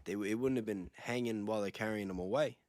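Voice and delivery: ordinary talk, nothing marked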